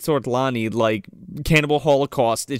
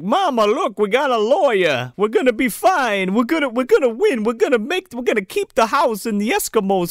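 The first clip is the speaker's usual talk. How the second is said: excited Santa; 7 semitones higher than usual. Retold or imitated. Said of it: "He's like".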